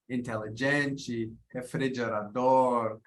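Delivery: Portuguese words in an English speaker's accent; attempted Portuguese pronunciation. Shown as a demonstration. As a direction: have a go at Portuguese, drawing words out. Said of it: "Pardon my bad Port".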